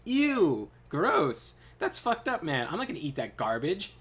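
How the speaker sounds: lightly voiced bratty refusal; childish whine. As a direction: whine like a picky kid. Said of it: "like a fucking child".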